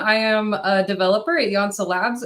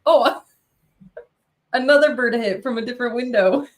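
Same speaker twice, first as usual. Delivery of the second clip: laughing; 3 semitones higher, 4 dB louder than usual. Real, not acted. Bird hits window mid-sentence.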